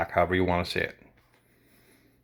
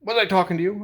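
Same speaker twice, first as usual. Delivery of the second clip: higher, louder mock scolding; retold angry customer; 10 semitones higher, 3 dB louder, faster than usual. Mimicking the customer telling him off, raised and higher. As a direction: snap back like the offended customer. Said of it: "she just read me".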